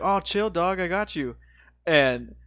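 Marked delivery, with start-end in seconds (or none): 0.0-1.3 higher-pitched, casual brush-off; laid-back hood guy. Retold or imitated. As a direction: imitate a chilled-out buddy placating his superior. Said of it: "super laid back guy".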